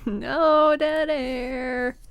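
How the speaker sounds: laughing, slow and loud. Pretend. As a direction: say it through a laugh. Echo with laugh.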